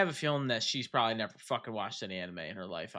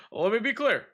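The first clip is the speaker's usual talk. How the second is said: laughing mock speech; 6 dB louder than usual. Obama impression bit.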